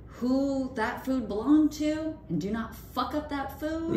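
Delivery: urgent high warning to the cooks. Retold or imitated. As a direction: insist they get it right. Urging kitchen staff.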